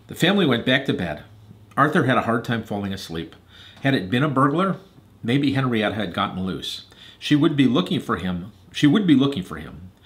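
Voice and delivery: measured, expressive storytelling; story narration. A narrator's reading. Reader telling Hadley and Eliza Arthur's story, narrating. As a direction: read a storybook aloud to children.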